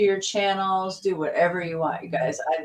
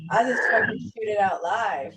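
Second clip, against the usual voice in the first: laughing while talking; 2 semitones higher than usual. Real, not acted. Laughing through boast.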